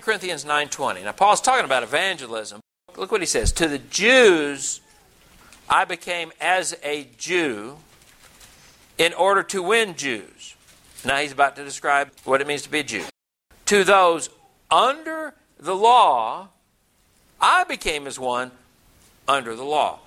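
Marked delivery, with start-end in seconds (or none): 3.5-10.5 slow, deliberate Bible reading; scripture reading. Acted. Reads scripture aloud to congregation. 13.7-20.0 slow, deliberate Bible reading; scripture reading. Acted. Reads scripture aloud to congregation.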